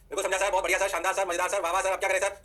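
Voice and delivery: lightly acted yes-sir student chorus; students' eager agreement. Teacher answering himself as students, mock eager agreement. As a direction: rattle off praise in an even, repetitive chant.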